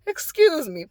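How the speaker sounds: mildly courteous excuse me to a stranger in the way; a touch of polite manners, nothing pushy. Retold or imitated. Vlogger retelling asking a shopper to move, politely.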